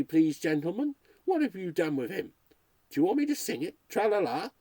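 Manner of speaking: a nervous broadcaster talking to listeners; lightly voiced radio ghost hunter. Radio ghost hunter alone in a haunted house, uneasy.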